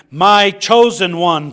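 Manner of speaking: slow, loud proclamation from the cloud; thundered. Acted. Preacher voices God proclaiming his Son from the cloud, thundering. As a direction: thunder it out slowly, as God's voice. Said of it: "from this cloud a voice thundered".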